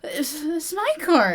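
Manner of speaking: lightly voiced pouting student; whiny Kristoff. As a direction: sulk like a spoiled rich boy. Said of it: "And he's like".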